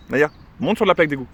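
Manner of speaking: dog command. Real, not acted. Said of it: "quand je lui dis".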